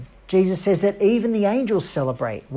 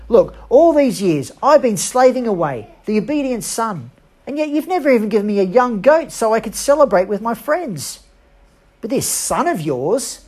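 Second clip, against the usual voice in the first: aggrieved complaint; 5 semitones higher, 4 dB louder than usual. Acted. Older brother's complaint to father.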